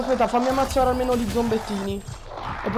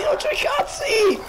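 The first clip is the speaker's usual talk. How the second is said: much higher, shouting it; frustrated shout. Real, not acted. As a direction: yell it out, stress on "non". Overwhelmed, repeated yell.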